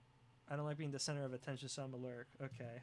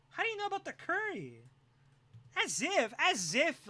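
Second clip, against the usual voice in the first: much higher and louder, flustered; high mock panic; 10 semitones higher, 6 dB louder than usual. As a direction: squeal in mock alarm. Mock paranoid.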